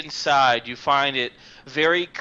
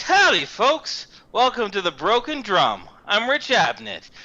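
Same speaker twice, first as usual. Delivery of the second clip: lightly voiced friendly shop clerk; folksy shopkeeper. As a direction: greet customers like a salesman.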